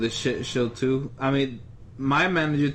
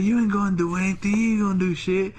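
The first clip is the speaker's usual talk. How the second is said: retold taunt; 6 semitones higher, faster than usual. Acts out the customer's taunt.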